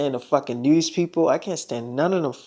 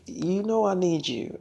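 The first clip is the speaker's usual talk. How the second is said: softer, tender you know I need you; soft tender plea; 2 semitones higher, 6 dB quieter than usual. Retold or imitated. Selena asking her boyfriend to stay, softly tender. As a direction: murmur it softly to him. Tender couple exchange in bed.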